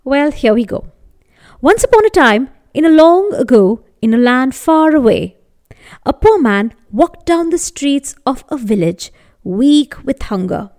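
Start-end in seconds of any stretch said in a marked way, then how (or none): 1.6-5.4 storybook opening; fairy tale opening. A narrator's reading. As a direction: open the tale grandly.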